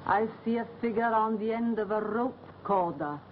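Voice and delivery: ominous prophecy; fortune teller. Acted. Fortune teller foretells hanging.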